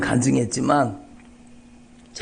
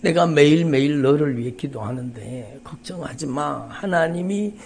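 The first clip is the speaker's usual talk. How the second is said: tender sister. Retold or imitated. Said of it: "그 누님이 전화를 하셨는데".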